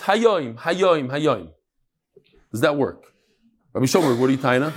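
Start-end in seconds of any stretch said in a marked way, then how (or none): 0.0-1.5 mild mock inner scream, fading; mental scream. Teacher acting the inner scream Hayoim, fading off. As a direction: chant it as his hidden thought. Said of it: "he screams".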